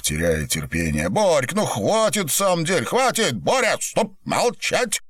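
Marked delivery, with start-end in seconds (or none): 1.1-5.0 higher, rising exasperated orders to stop; impatient command. A narrator's reading. Виноградов, losing patience, orders Боря to stop wailing. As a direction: snap him out of it, getting higher.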